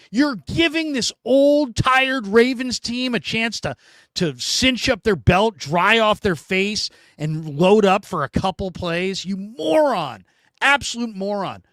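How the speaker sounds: mock scream. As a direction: rant at the coach like you can't believe it. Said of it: "And I'm just screaming".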